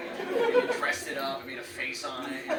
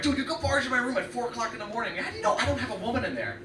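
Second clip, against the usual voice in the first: raised pitch mock protest; indignant brother; 9 semitones higher than usual. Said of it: "I'm like".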